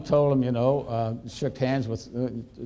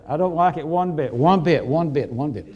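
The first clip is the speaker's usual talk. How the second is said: mock echo; 4 semitones higher, 6 dB louder than usual. Imitating the committee echoing his refusal. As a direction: voice trailing off in repeats like an echo. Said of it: "there was sort of an echo".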